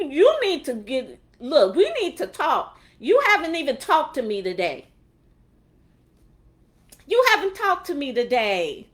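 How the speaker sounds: a touch of an indignant, scolding parent; God, lightly voiced. God chiding someone who only asks for things, mock indignant. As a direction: scold insistently, as a mildly hammed-up neglected father. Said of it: "He gonna just be looking at you".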